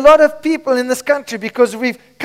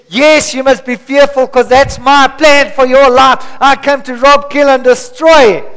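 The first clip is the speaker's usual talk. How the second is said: the enemy's voice; 4 dB louder than usual. Retold or imitated. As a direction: voice the enemy as a mocking threat. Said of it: "The enemy says".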